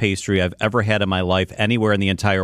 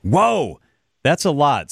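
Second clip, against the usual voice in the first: surprised; 5 semitones higher, much slower than usual. Real, not acted. Reacts to thirty thousand sold.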